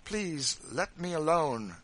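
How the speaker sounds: with extreme disgust; fierce. A narrator's reading.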